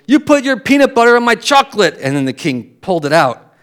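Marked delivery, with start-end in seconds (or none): 0.1-2.0 jester. Retold or imitated. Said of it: "jester goes".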